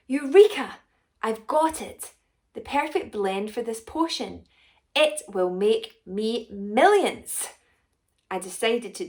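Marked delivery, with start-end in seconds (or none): 0.1-7.5 bursting out with a loud triumphant cry; excited eureka. Acted. Potion maker celebrating her perfect blend, loud and triumphant. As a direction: shout it like a mad inventor who just cracked it.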